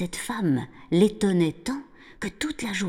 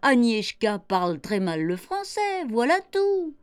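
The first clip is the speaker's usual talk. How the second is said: high-pitched amused reply, opening in laughter; laughing mother; 7 semitones higher, slower than usual. A narrator's reading. Mother dismissing her little boy's fears, laughing. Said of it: "elle lui répondit en riant".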